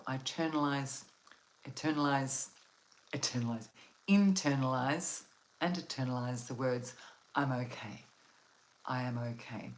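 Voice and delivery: words tripping from the cold; cold lips. Real, not acted. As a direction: numb mouth, fumbling words. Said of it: "my mouth is falling over the words because I'm so cold".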